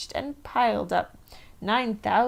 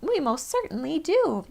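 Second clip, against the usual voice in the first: tag; 7 semitones higher than usual. A narrator's reading. Tiny mayor voice.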